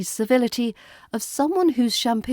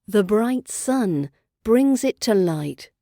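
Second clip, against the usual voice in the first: the title said slow and grand; slow title reading; slower than usual. A narrator's reading. Narrator announcing the fairy tale title to listeners.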